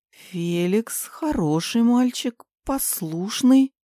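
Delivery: slow, shaky frightened whisper; trembling whisper. A narrator's reading. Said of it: "дрожащим голосом прошептала я". (дрожащий испуганный шёпот)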